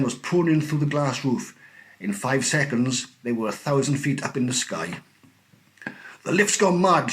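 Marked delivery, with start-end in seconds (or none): 6.2-7.1 high, loud panicked cry; old man panicking in the lift; alarmed shout. A narrator's reading. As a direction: shout it in fright. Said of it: "shouted Grandpa Joe".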